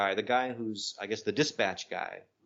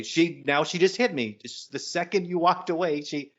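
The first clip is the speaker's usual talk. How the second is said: higher-pitched, mildly indignant retelling; indignant complaint; 6 semitones higher than usual. Retold or imitated. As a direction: retell an urgent appeal for help. Retold complaint to the driver.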